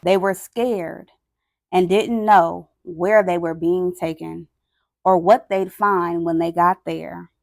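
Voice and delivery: weighty, dramatic read-aloud with long pauses; solemn story narration. A narrator's reading. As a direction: tell the grim story phrase by phrase. Reads picture book aloud.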